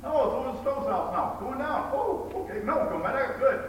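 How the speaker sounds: high, amused mock commentary of men watching; casual onlookers. Men outside watching the tornado pass, mock-casual high voice. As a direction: play the guys calmly narrating a funnel cloud. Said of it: "they're all thinking".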